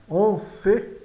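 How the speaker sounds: en as a nasal vowel between "an" and "o", ce closed. Shown as a demonstration. Teacher models it after explaining, en ce with nasal en. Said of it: "soa entre um an de maçã".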